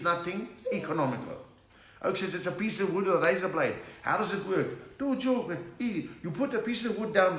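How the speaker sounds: a light put-on Indian accent for the inventor. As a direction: play the joke's Indian inventor, lilting. Indian inventor voiced in joke.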